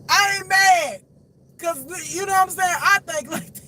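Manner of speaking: high, squealing laughter in the words; tickled, breaking up mid-sentence; cracking up. Real, not acted. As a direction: talk through a real laughing fit. Laughing at the cake story.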